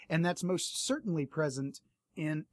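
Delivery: hoarse, voice giving out. Real, not acted. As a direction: speak through a fading, hoarse voice. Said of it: "losing my voice".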